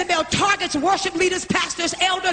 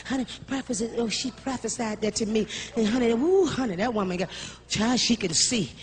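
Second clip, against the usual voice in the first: much softer mock gossip, hushed honey talk; gossiping church member; 6 semitones lower, 6 dB quieter than usual. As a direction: pass on the rumour in a hushed put-on voice.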